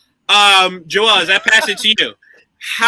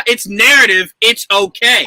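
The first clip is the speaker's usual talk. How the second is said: firm mock placating, cutting in; insistent reassurance. Director cutting off the zombie actor's protest, firmly placating. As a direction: shut down the objection with emphatic reassurance.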